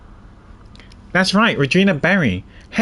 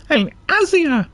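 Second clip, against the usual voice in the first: much higher, slow nasal call; nasal animal tamer; 10 semitones higher, slower than usual. Acted. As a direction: call out to the elephant by name. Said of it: "let's give her a nasal one".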